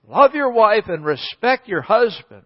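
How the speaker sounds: the whole line rung out boldly to the church; proclaimed. Shown as a demonstration. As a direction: proclaim it to the congregation. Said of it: "The secret of a great marriage".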